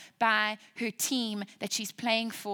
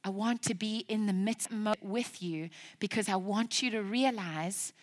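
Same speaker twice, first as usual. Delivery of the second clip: tender voice of God. Acted. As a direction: speak as God comforting his daughter. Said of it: "he says".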